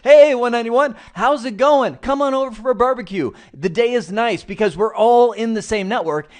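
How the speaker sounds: loud, high, cheery hello to a neighbour; friendly shout out. Pretend. Man inviting neighbour to a barbecue, cheerful loud call. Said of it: "that's the human way of saying it".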